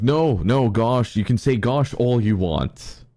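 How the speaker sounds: relieved father. Retold or imitated. Father answering, relieved, loud.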